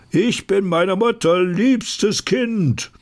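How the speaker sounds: hoch, stolz verkündet; hohe Narrenstimme. Acted. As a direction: wie ein eitler Gaukler. Narr verkündet auf der Bühne. (hoher, stolzer Narrenton)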